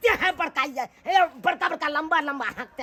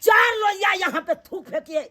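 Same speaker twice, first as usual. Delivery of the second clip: shouted oath of leaving; angry shouted vow to leave forever. Acted. Vowing never to return.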